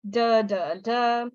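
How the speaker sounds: DA repeated as a voiced D drill; DA said three times with voice on the D; voiced D sound. Shown as a demonstration. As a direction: practise the D in DA, DA, DA. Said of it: "make the D sound".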